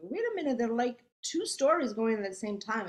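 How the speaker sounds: high, startled "wait a minute"; like the director catching a confusing plot; surprised objection. Retold or imitated. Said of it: "she goes".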